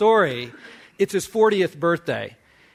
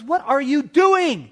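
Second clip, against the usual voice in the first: a lightly voiced eager boy, higher; excited little boy; 5 semitones higher than usual. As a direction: play the kid bursting with excitement. Eight-year-old self talking to adult.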